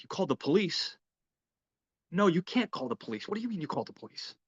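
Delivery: high-pitched mock disbelief; incredulous. Harry reacts to the police being called, incredulous. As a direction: imitate a boss aghast at the news. Acted boss's alarmed disbelief.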